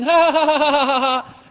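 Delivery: high mock laugh, rattled off; staccato pretend children's laughter; imitated giggling. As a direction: imitate kids laughing wildly. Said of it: "They're laughing, they're giggling".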